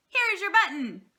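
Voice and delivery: high, loud, excited find; Frog's eager cry; cried out. A narrator's reading. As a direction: call out the discovery happily. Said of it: "cried Frog".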